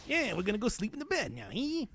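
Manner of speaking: old-time gangster impression, lightly done; nineteen twenties mobster. Streamer tries an impression for the audience, twenties mobster. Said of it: "your impression of a nineteen twenties mobster".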